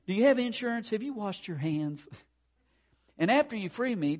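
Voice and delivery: high, loud storybook voice; fretful unicorn. Acted. Stuck unicorn quizzes his would-be rescuer, fretting. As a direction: pester the rescuer with question after question.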